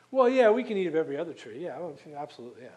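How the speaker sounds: breezy, offhand yeah-yeah, rushed and dropping away; mock casual dismissal. Preacher imitating Eve's offhand brush-off. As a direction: brush it off like it's nothing.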